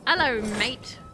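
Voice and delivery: drawn-out, badly faked Aussie; half-hearted fake Australian twang; bad Australian accent. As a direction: greet in a poor Australian accent. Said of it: "I can't do an Australian accent".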